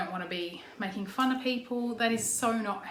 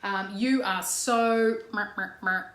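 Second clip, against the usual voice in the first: slow, pointed accusing nag; mild mock attacking whine; slower than usual. Shown as a demonstration. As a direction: needle the person with each why. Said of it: "attack the person".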